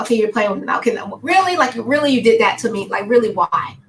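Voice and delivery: mock-indignant "really?", teasing not hurt; playful attitude. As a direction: call them out with a grin, jokingly outraged. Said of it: "I'm talking to him like this because it's, it's an attitude".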